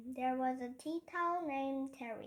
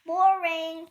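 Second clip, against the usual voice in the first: loud shout, higher; 3 semitones higher, 12 dB louder than usual. A narrator's reading. Henry heckling the class story with a loud shout. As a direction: bellow it out. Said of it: "shouted Henry".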